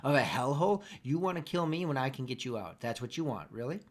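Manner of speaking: scornful hostage taunting her captor; defiant captive. Acted. DM plays the captive mocking the knife holder. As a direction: taunt the one holding the knife, steady.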